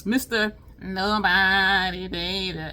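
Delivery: lightly voiced showman intro; a hint of a stage announcer; mock grand introduction; imitating nasal comedian. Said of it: "he was like".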